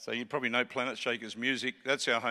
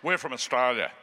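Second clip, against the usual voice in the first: Australian accent; 3 semitones lower than usual. Shown as a demonstration. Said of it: "We just let it drop straight over".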